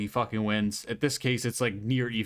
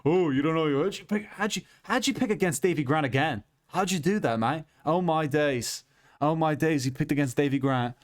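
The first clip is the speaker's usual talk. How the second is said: put-on a higher, teasing English-accented heckler; mock British fan scolding the pick, higher and teasing; mocking British viewer; 4 semitones higher than usual. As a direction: jeer like a smug British commenter who caught you out. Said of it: "could clip this and be like".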